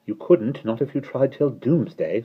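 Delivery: scoffing. Acted. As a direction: brush him off with scorn. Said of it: "scoffed Mary Poppins".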